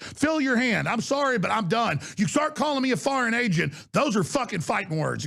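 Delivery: real fury spilling out at a congressman; furious rant. Real, not acted. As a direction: lay into him, boiling over. Cursing rant at Schiff.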